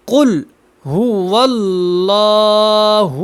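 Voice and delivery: قل هو اللہ drawn out, heavy ل in اللہ; slow recitation to repeat. Shown as a demonstration. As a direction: recite it for students to follow. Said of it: "میرے ساتھ ساتھ پڑھیں". (ساتھ پڑھنے کے لیے آہستہ تلاوت)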